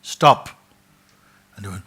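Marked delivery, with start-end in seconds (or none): 0.0-0.5 sudden high, loud command; commanding shout. Acted. Mysterious cave voice stopping the seeker, shouting. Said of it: "and a voice said".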